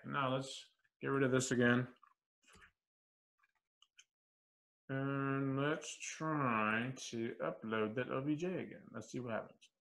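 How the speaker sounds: talking while chewing gum; smacking gum between words. Real, not acted. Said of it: "sorry for the smacking of the gum".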